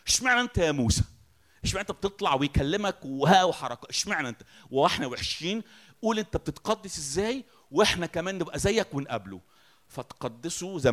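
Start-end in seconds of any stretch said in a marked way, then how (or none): 0.1-9.4 louder, higher whiny complaint at Moses; mock jealous crowd.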